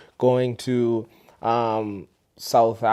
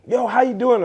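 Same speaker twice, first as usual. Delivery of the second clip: mimicking locals; 10 semitones higher, 3 dB louder than usual. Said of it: "So they would say".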